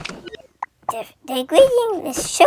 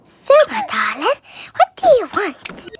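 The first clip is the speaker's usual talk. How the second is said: higher, swooping pretend-mom voice; mom's accent; 4 semitones higher than usual. Child voicing mom to darling, put-on mom accent. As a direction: play a mother asking her darling, lilting. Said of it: "Mom's accent".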